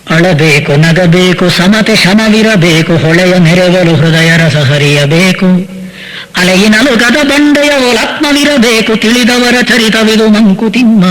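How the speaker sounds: slow, measured chanting of the poem; slow devotional poem chant; verse recitation. Acted. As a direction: draw each line out like a recital.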